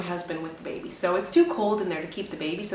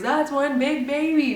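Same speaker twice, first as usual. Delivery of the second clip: amazed staff remark; 7 semitones higher, 6 dB louder, slower than usual. Retold or imitated. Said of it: "all I heard was".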